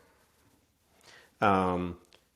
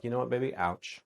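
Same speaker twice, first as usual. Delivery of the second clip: light ouch; 3 semitones higher, 5 dB quieter than usual. Shown as a demonstration. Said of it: "you could be like".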